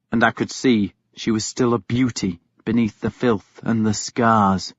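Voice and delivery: usual speaking voice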